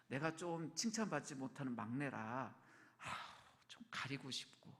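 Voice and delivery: 작게, 한숨 섞어 잦아들듯. Acted. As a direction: trail down into a sheepish, sighing murmur. 부족한 막내의 속마음 연기. (주눅 들어 기어드는 목소리로)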